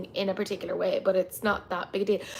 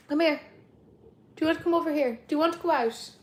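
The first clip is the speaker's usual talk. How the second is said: high, fast pet voice for the dog; 6 semitones higher, faster than usual. Real, not acted. Calling the dog again.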